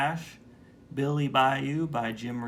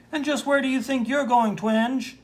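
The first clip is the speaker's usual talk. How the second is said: stern boss; 12 semitones higher, 6 dB louder than usual. Acted. Boss stops the clerk.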